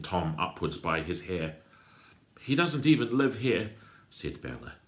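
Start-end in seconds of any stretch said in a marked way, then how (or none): 2.4-3.8 put-on loud, high protest from a girl; outraged protest. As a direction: cry out in protest. Bella protests to the crook.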